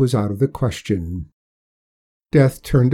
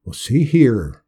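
persuasive; 4 dB louder, slower than usual. Acted. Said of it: "Death said persuasively".

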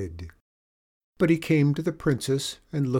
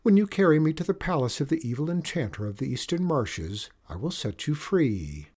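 bright higher princess voice; a brisk, sure young princess; cartoon princess; 4 semitones higher than usual.

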